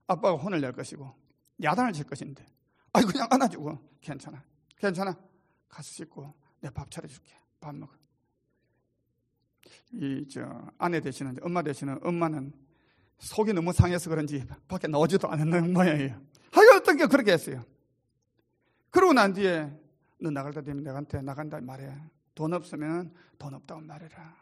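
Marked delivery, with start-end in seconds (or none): 4.0-7.9 near-hushed, soft comforting; calm her like a frightened child; father hugging his daughter at the door, soothing; soothing reassurance. Retold or imitated. 20.2-24.4 soft, much quieter fatherly voice; father quietly asking his daughter to tell him; gentle instruction. Retold or imitated.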